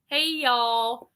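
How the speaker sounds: lightly imitated Southern US greeting; a hint of a Southern drawl; Southern accent. Streamer echoing a Southern friend's greeting, light Southern accent. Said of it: "she's got that Southern accent".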